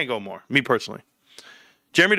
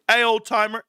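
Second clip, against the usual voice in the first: mock higher-pitched call across the court; hey-you call, pitched up; 6 semitones higher than usual. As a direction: imitate a player hailing an old-timer. Young players calling him over.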